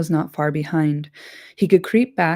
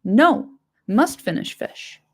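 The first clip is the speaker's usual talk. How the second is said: higher, petulant creature voice; sulky Gollum; 4 semitones higher, slower than usual. Acted. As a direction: whine like a greedy creature refusing. Gollum's voice held.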